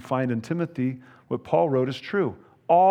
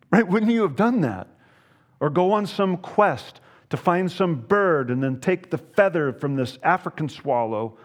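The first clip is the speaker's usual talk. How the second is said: mock incredulous; 3 semitones higher than usual. Preacher's comic exaggeration.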